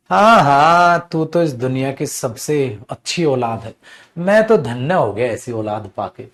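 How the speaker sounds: mocking praise of a useless child; sarcastic parent. Shown as a demonstration. Teacher demoing sarcasm as a scornful parent. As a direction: lay the sarcasm on thick. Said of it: "समझ जाओ sarcastic tone है बेटा".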